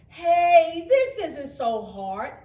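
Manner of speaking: loud cheerful call across the pond; calling out happily. Acted. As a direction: shout your surprise that it's easy. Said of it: "he called".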